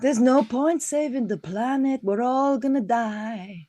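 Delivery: slow, drawn-out mock doom; doom-laden put-on woman. Interviewer dismissing little Greta, slow put-on character voice. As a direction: drag the words out as a gloomy character. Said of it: "a woman who talks like this".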